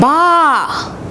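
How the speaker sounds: loud baa like a sheep; loud sheep bleat. Retold or imitated. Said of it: "That is a very loud ba".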